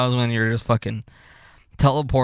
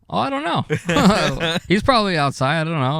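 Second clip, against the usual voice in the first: slow, laughing fake innocence; 5 semitones higher, slower than usual. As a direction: drawl it out through laughter. Feigning ignorance, laughing.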